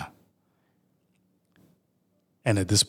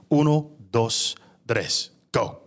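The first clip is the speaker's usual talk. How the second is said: counting in Portuguese; slower than usual. Acted. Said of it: "in Portuguese this time".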